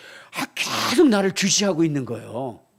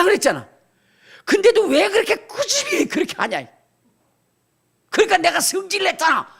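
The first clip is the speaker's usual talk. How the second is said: put-on higher, louder indignant child; voicing the grandson; 11 semitones higher, 5 dB louder than usual. Grandfather voicing his grandson's complaint about hair washing. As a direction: play the annoyed little boy complaining. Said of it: "그러는 것 같아요".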